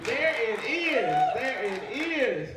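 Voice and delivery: slow, drawn out; slow, satisfied approval; savoring. Real, not acted. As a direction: let each word hang. Crowd responds, he savours.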